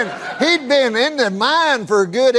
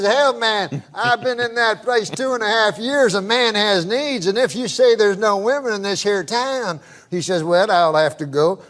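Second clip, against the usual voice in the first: put-on Southern accent. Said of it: "I can tell by the accent".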